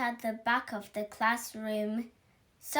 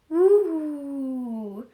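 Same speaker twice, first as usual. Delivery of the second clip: ghost woo; 3 semitones higher, 5 dB louder than usual. Acted. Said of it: "went the ghost".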